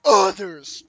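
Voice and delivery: slow, loud groaning zombie. Acted. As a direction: groan it out like the undead. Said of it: "I should give this guy a zombie voice".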